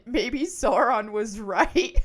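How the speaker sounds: laughing quote. Retold or imitated. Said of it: "They said".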